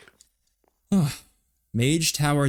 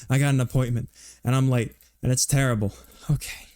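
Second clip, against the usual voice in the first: out of breath. Real, not acted. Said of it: "I do have to actually catch my breath".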